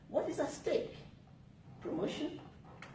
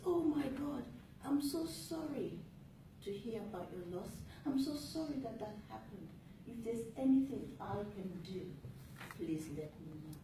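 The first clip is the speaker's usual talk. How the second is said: sympathetic voice; 2 semitones higher than usual. Shown as a demonstration. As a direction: comfort a grieving friend. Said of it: "you have that sympathetic voice".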